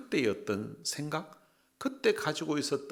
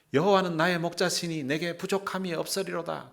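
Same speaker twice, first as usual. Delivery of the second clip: higher, sing-song schoolchild recital; imitated rote recitation; 5 semitones higher than usual. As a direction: rattle it off like kids memorizing. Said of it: "그 조그만 애들이 막 딸딸 외우는 거예요". (아이들이 뜻 모르고 딸딸 외우는 흉내)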